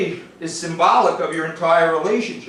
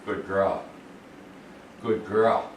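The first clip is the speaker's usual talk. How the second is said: 1 soft praise; 7 semitones lower, 8 dB quieter, slower than usual. Real, not acted. Quiet praise backing dog up.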